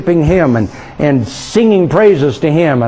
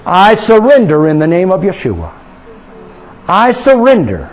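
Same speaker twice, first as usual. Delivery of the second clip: leading prayer. Real, not acted. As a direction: pray it out for them to echo. Leads congregation in prayer.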